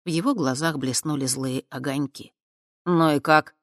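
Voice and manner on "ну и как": snide. Acted. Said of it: "ехидно спросил он".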